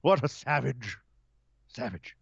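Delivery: hammed-up British tut-tutting, drawn out; mock British accent. Host parodying British dismay at a wrestler, mock British accent. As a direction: play a scandalised Brit, fading off at the end. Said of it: "if you're British".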